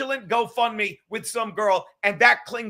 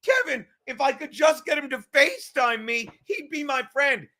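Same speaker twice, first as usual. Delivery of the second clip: higher, fake-crying whine; mock whiny Kevin; 4 semitones higher than usual. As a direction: blubber like a pouting child. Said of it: "That's how Kevin does it".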